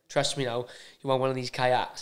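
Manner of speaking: imitating Tony. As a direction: drop low and talk him into it. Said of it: "but he said".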